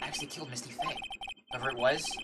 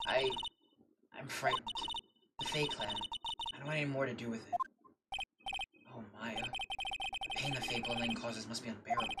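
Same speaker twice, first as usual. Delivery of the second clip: frightened; 2 semitones lower, 8 dB quieter than usual. Acted. Frightened witness, grieving reply.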